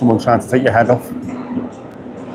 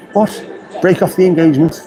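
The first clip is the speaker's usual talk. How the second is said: posh fella; 5 semitones higher than usual. Retold or imitated. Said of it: "There's a very posh fella in it".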